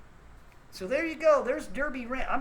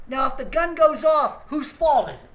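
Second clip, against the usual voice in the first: louder, higher, demanding; rant shout; 5 semitones higher, 11 dB louder than usual. Real, not acted. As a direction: hit it like a challenge. Ranting, challenging the audience.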